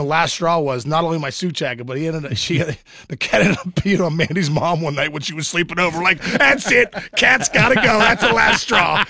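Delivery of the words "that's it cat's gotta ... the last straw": fed-up decree. Retold or imitated. Deciding to get rid of the cat, fed-up decree. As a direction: lay down the law.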